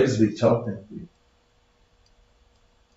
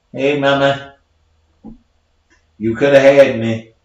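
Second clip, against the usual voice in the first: put-on baby ghost voice; 4 semitones higher, 9 dB louder than usual. Ghost baby voiced in standup bit.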